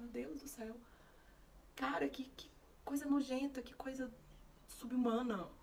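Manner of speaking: slow, appalled muttering; new mother appalled by hospital bathroom; disgusted. Retold or imitated. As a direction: recoil from the filth.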